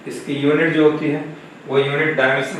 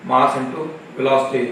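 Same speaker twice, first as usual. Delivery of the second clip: slow dictation; much slower than usual. Shown as a demonstration. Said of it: "teacher dictating formula".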